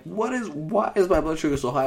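high, alarmed question. Retold or imitated. Teen to mom after a high reading, alarmed.

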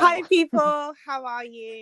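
bright, loud London accent greeting. Shown as a demonstration. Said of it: "Let them hear your amazing London accent".

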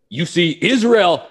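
put-on Israeli accent, high and loud; Bibi impression. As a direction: do Netanyahu's Israeli accent orating. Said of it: "Bibi, put it".

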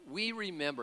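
whining Israelite; whiny voice. Retold or imitated. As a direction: whine it like a complaining child. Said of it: "you almost imagine them in that whiny voice".

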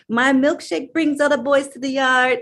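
quoting a client through laughter; bubbly, giggling boast; a laughing, proud client; laughing enthusiastic quote. Retold or imitated. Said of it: "she was so enthusiastic".

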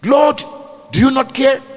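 crying out. Acted. Preacher voicing a worn-out believer, crying out to the Lord. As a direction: call upward in frustration. Voicing a despairing cry to God.

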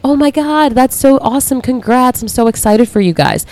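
imitating friends. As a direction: gush like a thrilled friend. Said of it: "be like".

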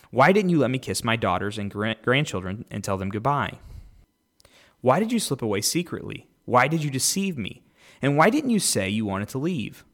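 measured, lifted Bible reading; podcast host reading Genesis aloud, clear scripture reading. Acted. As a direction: read the passage out to the listeners.

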